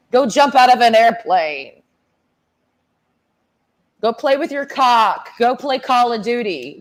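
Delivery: hammed-up, dismissive rant at a soldier; mock scolding of the military guy; sassy telling-off. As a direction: order him out of your face one jab at a time. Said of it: "that's the attitude I give 'em".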